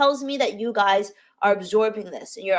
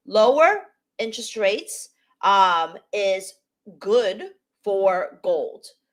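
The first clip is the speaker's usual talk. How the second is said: spelled out piece by piece, very slow and deliberate. Commenting on Fed rate cut bets, the speaker says it very slowly. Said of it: "I'm going to say this very slowly".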